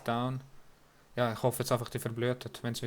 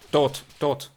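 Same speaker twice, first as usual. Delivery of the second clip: excited shout; 2 semitones higher, 10 dB louder than usual. Real, not acted. Shouting kills during fight.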